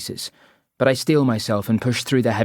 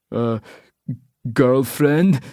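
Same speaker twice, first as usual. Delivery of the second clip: slow, loud pushy local; Scottish pub man; 3 semitones higher, 4 dB louder, much slower than usual. Acted. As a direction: lean in and drawl the question. Man sneers.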